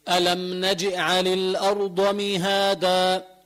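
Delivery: slow chanted ألم نجعل with the ج bouncing; slow tajweed chant of نجعل with a bounced ج; qalqala on jim. Shown as a demonstration. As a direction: recite نجعل letting the sukun ج pop with an echo. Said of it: "نجي، هذه قلقلة".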